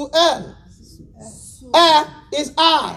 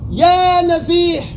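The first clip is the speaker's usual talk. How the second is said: respectful address; slower than usual. Shown as a demonstration. Teacher contrasting a polite address with a rude one. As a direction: call him with respect. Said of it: "is different".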